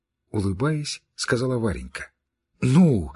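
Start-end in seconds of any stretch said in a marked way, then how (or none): 2.6-3.1 impatient, louder urging; hurrying. Acted. Girl rushing her friend, impatient urging. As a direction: push her to go on. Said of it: "торопила Кити".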